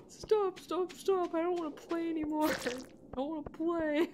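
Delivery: high-pitched mock-pleading whine; whiny sore loser. Player replaying the sore loser from the meme, high whine. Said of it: "I'd be that asshole".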